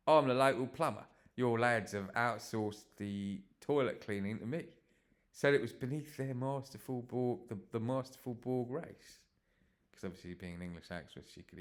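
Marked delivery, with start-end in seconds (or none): 0.1-9.2 Cockney plumber voice, higher; Cockney accent. Acted. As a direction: play a London plumber. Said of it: "in a Cockney London accent".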